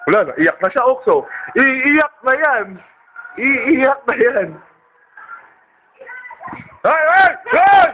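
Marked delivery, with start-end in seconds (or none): 1.5-4.5 slow stretched teasing chant; teasing sing-song. Acted. 6.8-7.9 sharp loud hey; calling out. Real, not acted. Calling out to kids.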